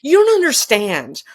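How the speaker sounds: begging the doctor to understand, near tears; retold tearful plea. Patient pleads with the hip surgeon, tearful and high. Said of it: "I just kinda burst into tears".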